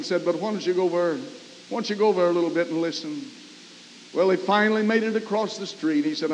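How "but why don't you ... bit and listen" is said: strange gentle voice. Retold or imitated. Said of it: "it seemed like a strange voice to him".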